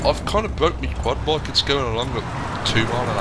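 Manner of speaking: plain Brummie accent. Real, not acted. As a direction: talk with a Birmingham accent. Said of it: "You sound so brummy".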